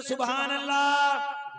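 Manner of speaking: सुभान अल्लाह shouted loud and slow; said loudly. Shown as a demonstration. Preacher leading the crowd in a loud, slow सुभान अल्लाह. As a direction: call out सुभान अल्लाह with full, drawn-out force. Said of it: "जरा जोर से बोले".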